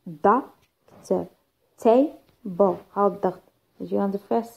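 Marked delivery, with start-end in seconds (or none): 0.1-1.3 "doctor" split in two, weight on "doc"; stress on first syllable. Shown as a demonstration. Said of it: "stress يجي on the first syllable". 1.8-2.7 "table" broken up, weight on "ta"; stress on first syllable. Shown as a demonstration. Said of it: "stress يجي on the first syllable".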